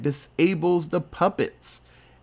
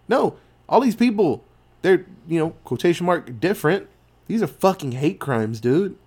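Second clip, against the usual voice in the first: insistent Edgar; 3 semitones higher than usual. Retold or imitated. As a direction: push the point hard, nearly shouting.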